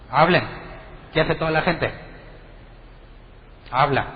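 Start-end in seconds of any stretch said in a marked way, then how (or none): 0.1-0.4 pastor's command. Retold or imitated. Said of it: "el pastor dice".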